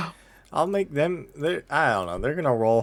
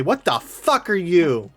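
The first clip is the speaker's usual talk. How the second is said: wary demand; 2 semitones higher, slower than usual. Acted. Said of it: "they've got their blades out and they say".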